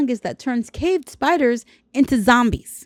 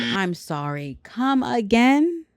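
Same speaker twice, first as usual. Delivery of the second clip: mock disbelief; slower than usual. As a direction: stretch out a mock-incredulous double take. Feigned disbelief at the statistic.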